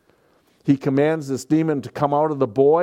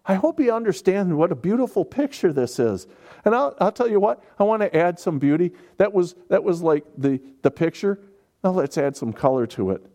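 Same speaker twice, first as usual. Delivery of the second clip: excited; 6 semitones higher, faster than usual. Real, not acted. Preacher rising in excitement.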